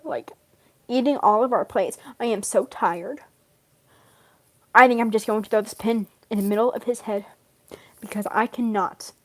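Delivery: a hint of a weary, proper butler, softly voiced; quietly put-upon, lightly in character; Barbatos. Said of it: "That's my Barbatos voice".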